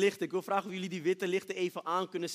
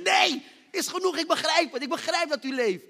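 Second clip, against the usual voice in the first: crying out enough; 8 semitones higher, 7 dB louder than usual. Retold or imitated. Overwhelmed man shouting to God to stop, high and loud. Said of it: "ik begon te schreeuwen".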